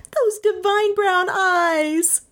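high, slow, held coo; high-pitched drawn-out fawning; gushing admirer. A narrator's reading. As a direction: swoon over the dog in a high voice. Third woman gushes over dog.

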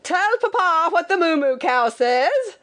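high, singsong papa calling out; insistent father's high-pitched call; pestering father. A narrator's reading. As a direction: coax the baby in a high put-on holler. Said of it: "and when he said".

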